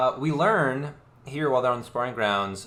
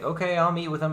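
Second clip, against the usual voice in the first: high mock Kaladin; 7 semitones higher than usual. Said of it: "Kaladin is like".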